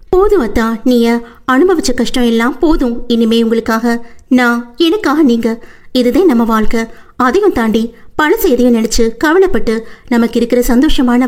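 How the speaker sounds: lightly voiced young wife soothing her husband; tender heroine voice. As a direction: gently comfort him as the loving wife. Heroine comforting.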